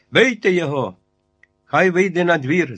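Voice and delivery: shouting. A narrator's reading. Captain screams at the crowd to beat the giant outside. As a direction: scream the order at the mob. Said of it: "закричав сотник".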